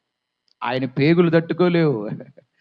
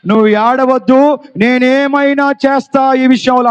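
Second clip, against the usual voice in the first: higher and louder, firm promise; bold Jesus; 4 semitones higher, 4 dB louder than usual. Acted. Preacher repeating Jesus's promise to congregation, forceful. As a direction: proclaim it to the whole church.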